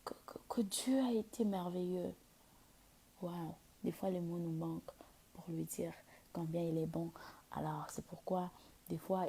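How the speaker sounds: soft breathy worship whisper; whispered prayer. Acted. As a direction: hush it like an intimate prayer. Prière intime, voix chuchotée. (prière chuchotée)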